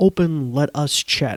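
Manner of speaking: usual speaking voice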